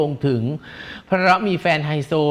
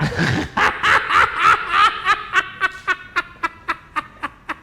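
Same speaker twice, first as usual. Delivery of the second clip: long high cackle; high staccato laughing fit; helpless laughter. Real, not acted. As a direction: shriek with laughter, then let it tail away. Cracking up at the joke.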